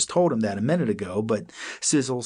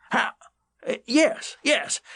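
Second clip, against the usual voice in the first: surprised; slower than usual. A narrator's reading. Old cat surprised.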